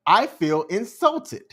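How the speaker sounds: slow, deliberate, retold calm statement. Answering her after she took over the balloon, very calm. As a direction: say it slowly and evenly, keeping composed. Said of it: "And I very calmly said".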